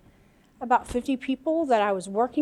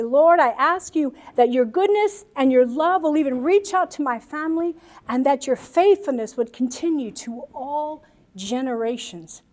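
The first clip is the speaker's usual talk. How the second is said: praying aloud. Shown as a demonstration. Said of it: "you say".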